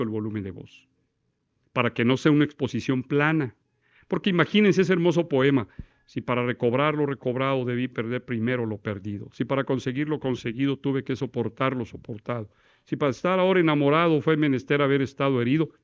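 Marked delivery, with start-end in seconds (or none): 6.1-15.7 monotone, even poem reading; flat reading. Shown as a demonstration. Teacher shows a lifeless flat exposition. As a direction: read it flat with no variation. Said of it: "Toda la vivacidad del discurso se pierde".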